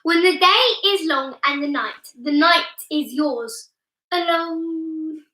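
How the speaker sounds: slightly croaky, tired voice; a bit croaky today. Real, not acted. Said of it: "My voice is a bit croaky today".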